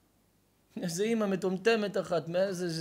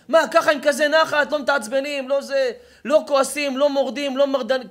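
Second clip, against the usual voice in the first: amazed teacher; 8 semitones higher, 11 dB louder than usual. Acted. Teachers quizzing the calm boy.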